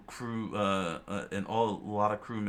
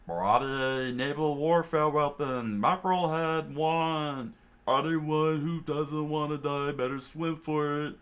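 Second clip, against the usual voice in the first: loud, raised, drawn-out proclamation; shouted announcement; 7 semitones higher, 4 dB louder than usual. A narrator's reading. Cook announces the weapon to everyone, loud high call.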